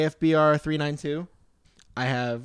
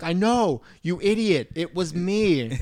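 exasperated retort; 4 semitones higher, slower than usual. Retold or imitated. Acted villain exasperated by clueless MacGruber.

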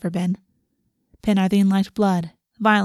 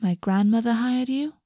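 skeptical; 3 semitones higher than usual. Acted.

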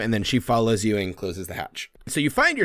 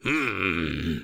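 goblin voice; 3 dB louder, much slower than usual. Acted. Skurg turns down a ration, goblin voice. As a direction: hum doubtfully, then holler it slowly.

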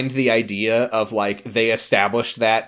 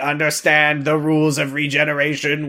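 lightly voiced monotone Dalek; a hint of robotic Dalek; 3 semitones higher than usual. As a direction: recite it evenly like a Dalek. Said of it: "the Daleks are like".

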